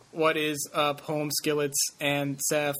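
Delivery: slow, stiff robot voice. Pretend. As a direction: read it like a bad robot. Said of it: "That's just an awful robotic voice".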